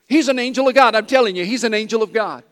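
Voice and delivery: loud, high, wide-eyed insistence to her friends; excited woman telling friends. Retold or imitated. Amazed lady to her girlfriends, loud and high. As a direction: she can't believe it, tell everyone.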